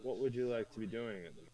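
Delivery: faint, distant voice; speaking too far from the mic; barely audible. Real, not acted. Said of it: "You sound very faint".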